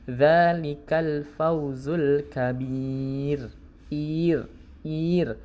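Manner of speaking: "kabir" ending on a light, thin r; slow "Dzalikal fauzul kabir" with a light ro; demonstrating the thin letter ro. Shown as a demonstration. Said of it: "tapi tipis".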